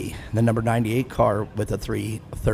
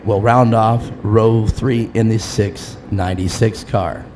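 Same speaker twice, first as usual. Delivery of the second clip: race announcer. Acted. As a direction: introduce each driver over the PA, measured and clear. Announces the starting field.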